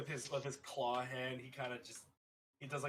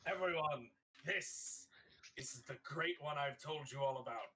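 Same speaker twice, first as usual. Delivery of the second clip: announcing to a crowd. Acted. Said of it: "turns to everybody in Elvish".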